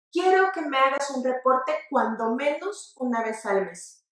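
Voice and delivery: "cuando menos" said with no accent on cuando; unstressed cuando. Shown as a demonstration. Teacher modelling an expression for viewers, unstressed "cuando". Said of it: "es suave, átona".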